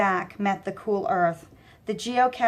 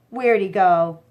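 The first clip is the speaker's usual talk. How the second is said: calling out loud; loud searching call; 6 dB louder than usual. Acted. Goon calling out.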